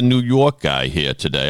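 a mock New York accent, lightly put on; half-hearted New York guy impression, playing it for laughs; bad New York accent. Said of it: "That's my bad accent".

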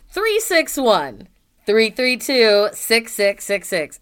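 each digit slow and clear; slowly spelled out. Shown as a demonstration. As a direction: read the number slowly for listeners. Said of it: "if any of you didn't catch that".

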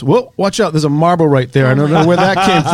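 mock alarm as dad spots the marble; imitating his father. Father warning his son about a marble on the steps, lightly imitated surprise. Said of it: "and he goes".

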